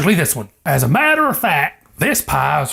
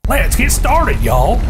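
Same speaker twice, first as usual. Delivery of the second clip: hammed-up Southern cooking-show host, much higher; chirpy Southern TV cook greeting; mock Southern hostess calling out; Paula Deen impression; 8 semitones higher, 4 dB louder, slower than usual. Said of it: "Is my impersonation right?".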